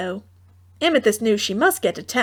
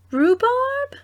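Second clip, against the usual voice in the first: thoughtful mother; 13 semitones higher than usual. A narrator's reading. Mother considering.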